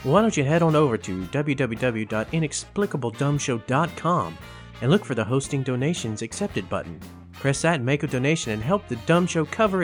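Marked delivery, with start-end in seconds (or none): none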